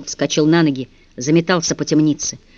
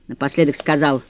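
usual speaking voice

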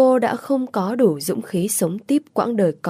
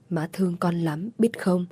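put-on softer, tender mother to her child; 5 dB quieter than usual. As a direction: murmur your love to a sleepy child. Mẹ thì thầm yêu thương con. (mẹ nói nhỏ âu yếm với con trước khi ngủ)

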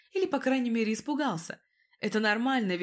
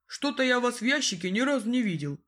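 suspicious; 3 dB louder than usual. A narrator's reading. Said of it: "Подозрительно сощурился мужчина".

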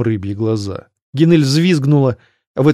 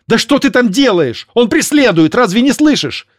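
very high, loud exasperated cries; blurted out; 11 semitones higher, 4 dB louder than usual. Acted. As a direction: snap at her in a panic. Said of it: "Канель выпалила".

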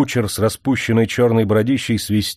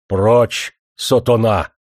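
offended snap; 4 dB louder, much slower than usual. A narrator's reading. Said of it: "обиделся не на шутку".

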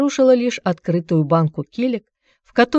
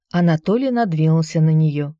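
ordinary delivery

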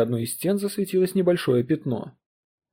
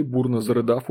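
usual speaking voice

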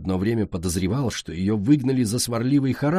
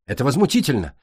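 indignant hiss; 3 semitones higher, faster than usual. Acted. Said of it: "зашипела Цунами".

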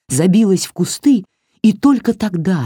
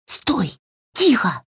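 talking doll; 6 semitones higher, slower than usual. A narrator's reading. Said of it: "прошипела Васька".

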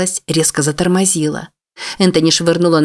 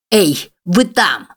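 slow, drawn-out shout; a big man hollering at the car; 2 semitones higher, much slower than usual. A narrator's reading. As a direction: call out menacingly across the cars. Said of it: "закричал детина".

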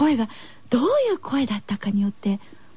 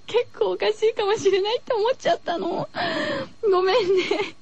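high, giggly apology; 笑いながら謝る; laughing; 8 semitones higher than usual. Real, not acted. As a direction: laugh while you say sorry.

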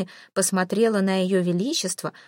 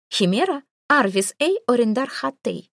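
command to a device; 4 semitones higher than usual. Acted. Queen gives voice command.

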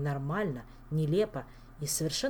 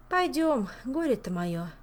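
sighing; 7 semitones higher, 4 dB louder, slower than usual. Acted. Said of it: "вздохнула Саэта".

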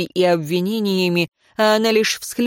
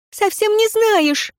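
even higher, slow, insistent «Совсем не знаешь!»; slower, higher despairing repeat, «не» hit hard; desperate repeat; slower than usual. Acted. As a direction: drag out «не знаешь», pleading. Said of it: "в отчаянии воскликнула".

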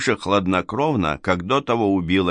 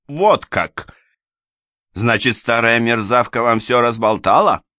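higher, louder and sharp; indignant lady; 5 semitones higher, 5 dB louder than usual. A narrator's reading. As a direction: spit out the accusation. Анна раздражённо. (возмущённо, громко и высоко)

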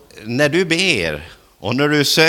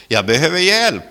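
louder, higher desperate plea; raised pleading cry; cry for help; 4 semitones higher, 6 dB louder than usual. Acted. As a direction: call out to Jesus from the heart. Preacher voicing a cry to Jesus.

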